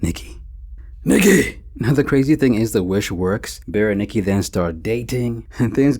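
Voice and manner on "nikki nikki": lovesick call of her name, building; obsessed calling. Retold or imitated. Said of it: "the only thing going through his brain is".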